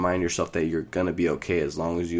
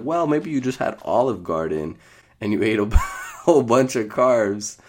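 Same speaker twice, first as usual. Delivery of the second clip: higher, louder, laughing mid-line; mom teasing; 5 semitones higher, 5 dB louder than usual. Retold or imitated. Mom laughing at son about Olive Garden carbs. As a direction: tease him through a laugh. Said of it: "my mom's like".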